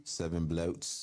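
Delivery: put-on Australian accent. Echoing the Aussie impression.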